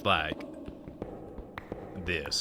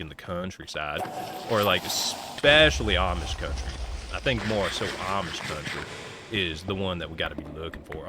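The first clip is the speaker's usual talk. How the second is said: Ohio countryside accent; 2 semitones lower than usual. Shown as a demonstration. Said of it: "this is what it sounds like".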